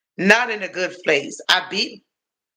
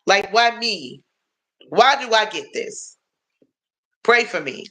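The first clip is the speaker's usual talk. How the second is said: exasperated plea. Retold or imitated. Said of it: "I was like".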